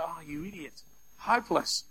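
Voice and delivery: a soft, dismissive "oh, you idiot"; muttered sneer. Retold or imitated. Preacher imitating himself sneering at a silver medallist. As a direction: scoff it under the breath at the screen.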